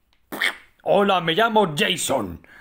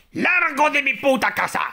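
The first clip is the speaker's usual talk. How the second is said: high, raised voice ordering him out; shouting at trespasser; 5 semitones higher than usual. Pretend. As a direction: yell at the intruder to get out. Mother character ordering Jason out.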